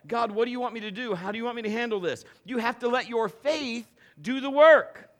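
loud, high, driving sermon voice; full-force preaching. Acted. Pastor exhorting the congregation to trust God, at full force. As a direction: preach it out to the back row.

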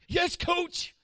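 high, loud compliant answer; intimidated player. Retold or imitated. Young player answers his yelling coach, loud and quick. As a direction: snap back obediently. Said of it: "coach get in your face".

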